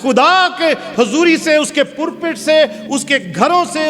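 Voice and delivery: high, driving pulpit voice; full-force sermon delivery; fiery preaching. Acted. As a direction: preach it hard to the congregation.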